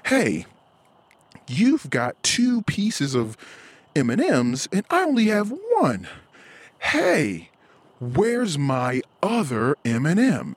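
put-on high whiny kid voice over candy; whiny toddler. Toddler whining to parent about candy, high whiny voice. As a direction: act out a toddler counting candy.

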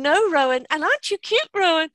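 high, teasing sing-song; a no that isn't serious; mock doting voice.

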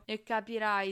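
loud, dismissive retort; irritated outburst. A narrator's reading. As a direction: blurt it out loudly, fed up. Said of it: "sbottò Ron". (sbottando, scocciato)

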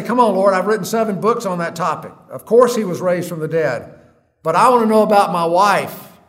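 a husband arguing with God about his dying wife; exasperated protest. Retold or imitated. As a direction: protest hard, half pleading. Pleading with God in frustration.

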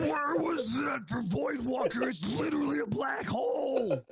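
high, loud, exasperated shout; yelling in disbelief. Real, not acted. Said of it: "that was me trying to express".

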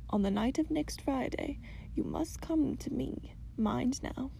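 put-on hushed serious old lady; gentle old grandmother. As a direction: warn kindly but firmly. Grandmother sets gentle trial.

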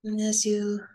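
calm, unhurried guidance with long pauses; guided meditation. Acted. Teacher guiding a group through belly breathing, calm meditation voice. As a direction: lead them gently through each breath, leaving space.

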